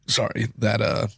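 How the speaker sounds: lightly tipsy, losing the thread. Real, not acted. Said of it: "I'm tipsy now".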